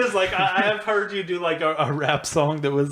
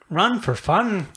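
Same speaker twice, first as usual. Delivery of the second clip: lightly voiced cartoon character; higher, mock movie-character voice; cartoon side character; 4 semitones higher, slower than usual. Trying to recall a movie character, lightly imitated. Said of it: "a side character. He does voices in car".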